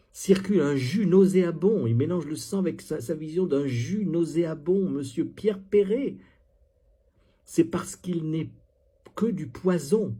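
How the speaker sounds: pausing for mock poetic effect; mock poem recital. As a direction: declaim it with scornful relish. Reads out the poem mockingly.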